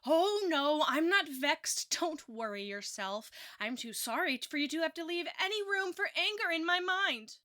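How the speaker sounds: drip sarcasm as if offended; mock-sweet Mrs Rachel, offended, sneering at Marilla; sarcastic. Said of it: "Continuing in a sarcastic way".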